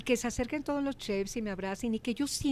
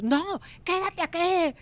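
slow, higher, firm order; mock chef order; 7 semitones higher, 4 dB louder, slower than usual. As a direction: hold her back like a stern chef. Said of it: "el chef decía". (orden lenta y firme del chef)

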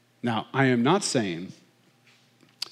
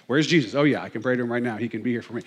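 calm reminder; faster than usual. Shown as a demonstration. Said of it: "what we should all ask".

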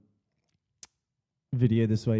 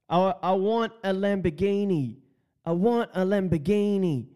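higher-pitched mock demand, said twice; imitating video attacker; 5 semitones higher than usual. Imitating the man who kicked Schwarzenegger, higher-pitched mock demand. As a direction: mimic a man crying out his wish, pitched up. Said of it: "at the end, he's like".

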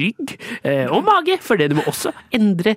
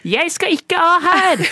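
mock outburst; 7 semitones higher, slower than usual. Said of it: "Og så sier du".

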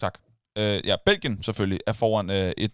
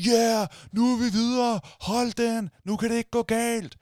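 much higher, jubilant mock cheer; retold crowd cheer; 12 semitones higher than usual. Crowd cheering at the screening, high mock jubilation. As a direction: cheer like the fans going wild. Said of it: "folk amok derinde".

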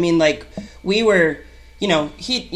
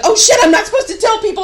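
higher, louder, fast panicky gush; panicked; 9 dB louder, faster than usual. Retold or imitated. Realizing she spilled a secret to her friend, fast panicky gush. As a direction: blurt it out, suddenly scared. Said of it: "And I was like".

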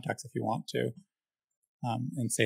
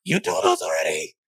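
second insect voice; 6 semitones lower, 3 dB louder than usual. Acted. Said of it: "another creature ... and goes".

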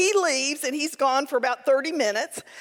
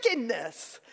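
quiet echo; 3 semitones lower, 6 dB quieter than usual. Shown as a demonstration. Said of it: "the answer is wickedness".

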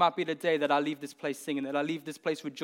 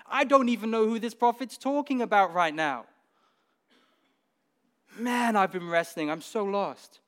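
exasperated eunuch; 4 semitones higher than usual. Retold or imitated. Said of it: "he's like".

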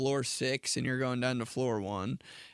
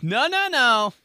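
high mock protest; 8 semitones higher, 6 dB louder, slower than usual. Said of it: "You're like".

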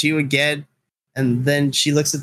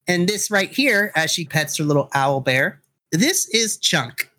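put-on bright young girl; 3 semitones higher than usual. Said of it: "and says".

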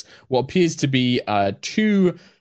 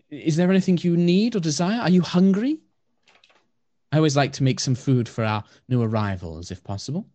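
gentle elf priestess; 3 semitones higher than usual. Acted. Blind elf asking her dog to lead her to the guests.

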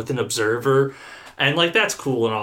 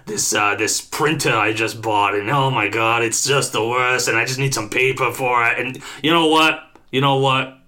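lightly voiced cranky caller, put-upon; a hint of a whiny, fed-up customer on the phone; terrible customer voice; 3 semitones lower than usual. Trainer playing a difficult caller for the class, mildly whiny. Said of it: "this terrible voice where I talk like this".

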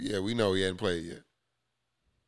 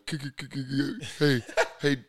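Trae Young impression; 6 semitones higher, 3 dB louder than usual. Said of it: "He don't stutter. He just got a fucking lisp".

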